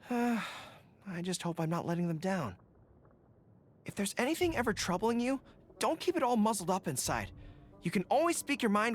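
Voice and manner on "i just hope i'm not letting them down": a touch of weary self-doubt. Acted. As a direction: let the worry slip out slowly. Confiding worry after a sigh.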